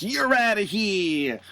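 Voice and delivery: hammed-up Brooklyn referee; Brooklyn accent. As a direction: overdo a New York tough-guy drawl. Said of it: "Are you trying to do a Brooklyn accent now?".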